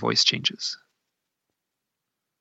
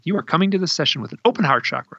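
retold stern order, higher pitched, run together; stern, tough; 4 semitones higher, faster than usual. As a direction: imitate a tough instruction without pausing. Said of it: "stern. She was tough".

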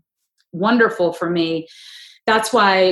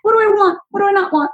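higher, pondering inner voice; a lifted, thoughtful self-question; musing inner voice; 11 semitones higher than usual. Retold or imitated. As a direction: weigh it up aloud, half to yourself. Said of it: "you just go".

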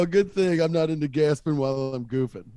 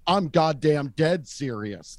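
slow, emphatic mock-boss delivery; stern boss; slower than usual. Boss insisting he is serious, mildly imitated stern delivery. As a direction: lightly act the boss, word by word. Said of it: "bosses act boss".

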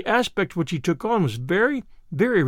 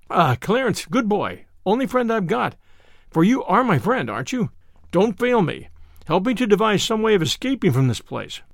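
beseeching; 2 semitones higher than usual. Acted. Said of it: "So I said beseechingly".

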